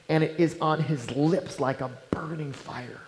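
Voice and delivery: hushed, breathless reading of scripture; whispered verse. Acted. Preacher reading Proverbs to the congregation in a whisper. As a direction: let the words burn softly.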